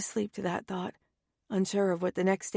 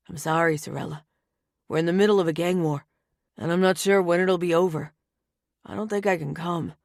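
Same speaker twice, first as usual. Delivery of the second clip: apologetic brother; 2 semitones lower than usual. Acted. Tony apologizing on the phone.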